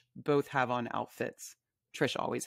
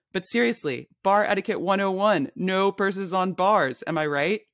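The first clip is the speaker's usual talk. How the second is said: raised voice laying down bar rules; loud and emphatic; 4 semitones higher, 3 dB louder than usual. Acted. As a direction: lecture the whole bar about purses. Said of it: "You're being kind of loud".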